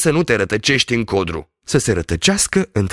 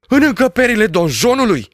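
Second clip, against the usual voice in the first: high, louder shocked question; shocked cry; 9 semitones higher, 4 dB louder than usual. Acted. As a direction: cry out the echo in disbelief. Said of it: "Strigă doctorul Patac". (strigăt uimit, mai sus și mai tare)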